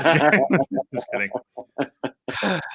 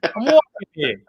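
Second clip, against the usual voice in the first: higher, hammed-up Boston accent; 9 semitones higher than usual. Boston accent imitating the brother-in-law. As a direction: play a brash Boston guy in a Boston accent. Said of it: "They have an accent".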